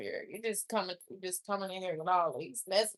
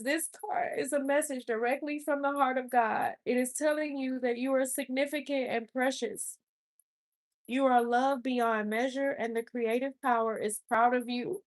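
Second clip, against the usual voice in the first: higher, tearful rereading of the card; emotional rereading; 4 semitones higher than usual. Real, not acted. Rereading the card to Spirit, tearful and higher. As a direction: voice lifted by held-back tears. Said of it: "Spirit, don't make me cry".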